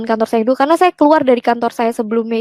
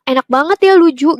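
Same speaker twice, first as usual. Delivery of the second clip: higher, louder mock-envious jab; teasing friend; 4 semitones higher, 4 dB louder than usual. Office friend needling the speaker about faith, teasing. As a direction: imitate a friend's ribbing, pitched up. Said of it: "Dia sampai bilang".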